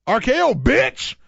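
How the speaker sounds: high, loud, drawn-out wrestling hype shout; hyped tweet read. Pretend. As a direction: belt it like a crowd chant at an arena. Reading a hyped fan tweet.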